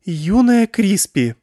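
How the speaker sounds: high, slow, loud icy scorn; haughty girl scolding the crying Krispi; cold disdain. A narrator's reading. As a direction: look down your nose at her. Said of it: "сказала она холодно-брезгливо".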